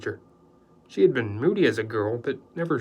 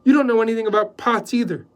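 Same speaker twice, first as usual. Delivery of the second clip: loud, higher, scornful; scolding the houseboy, loud and cutting; snapping; 10 semitones higher, 9 dB louder than usual. A narrator's reading. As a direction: put him down sharply. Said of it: "Joy snapped".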